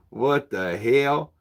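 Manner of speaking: slow, drawn-out redneck drawl; put-on redneck twang, very slow; redneck accent. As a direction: stretch it out in a playful redneck accent. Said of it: "that's my redneck accent".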